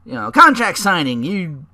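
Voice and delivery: light mock of a slick manager; fast-talking manager. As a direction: talk your way out of trouble. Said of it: "he's like".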